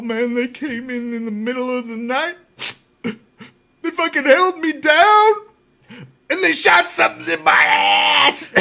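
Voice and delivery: high-pitched imitated wail, building to a shout; mock outraged complaint. Retelling inmate's outraged complaint.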